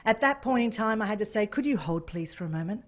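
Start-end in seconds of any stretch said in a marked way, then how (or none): 1.5-2.8 trying to be official. Retold or imitated. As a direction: hold the excitement in, low and official. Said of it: "I'm trying to be official".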